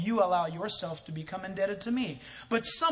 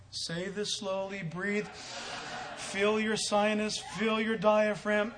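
slow, deliberate instruction; slow breath-coach delivery; slower than usual. Retold or imitated. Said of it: "he's the one telling me".

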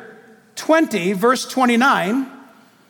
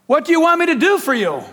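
higher, quick call to the crowd; 5 semitones higher, faster than usual. Acted. Jesus asking the two blind men, calling out. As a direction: call the question across in a lifted voice. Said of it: "he called out to them".

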